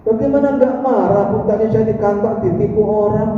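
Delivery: husband coming home cheated, complaining; angry husband. Acted. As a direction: throw it back at his wife, fed up.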